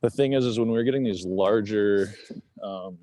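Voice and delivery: shallow breathing while walking; winded, talking between breaths. Real, not acted. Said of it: "I'm so out of breath".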